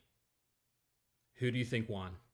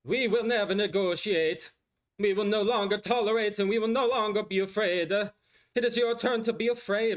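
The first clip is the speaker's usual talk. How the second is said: a raised, slowed celebrity speech voice, Valley vowels; Kardashian accent impression; 7 semitones higher than usual. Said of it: "with this accent".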